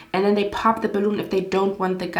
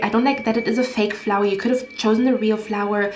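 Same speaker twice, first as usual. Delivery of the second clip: mock her nitpicking list of complaints; snobby picky woman. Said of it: "her energy was so disgusting".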